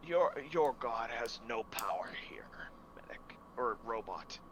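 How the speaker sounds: slow, hushed threat; menacing whisper. Acted. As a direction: whisper it like a curse. Priest threatens the robot cleric.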